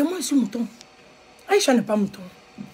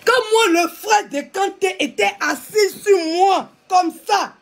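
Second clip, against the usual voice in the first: crying; 6 semitones higher, slower than usual. Real, not acted. Recalling being pinned down by Kanté's brother, crying. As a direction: sob through the memory of the assault.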